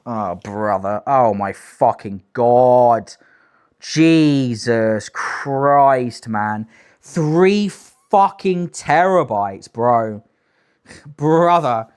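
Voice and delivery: slow, drawn-out exasperated groan; disbelief. Real, not acted. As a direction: stretch each word in disbelief. Reacting to three terabytes.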